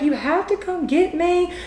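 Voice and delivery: a retold, hammed-up crying plea; imitating crying. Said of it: "crying and she's like".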